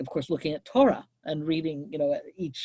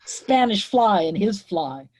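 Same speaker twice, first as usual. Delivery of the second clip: rich feminine key; 2 semitones higher, 5 dB louder, slower than usual. Acted. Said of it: "laughs in a rich feminine key".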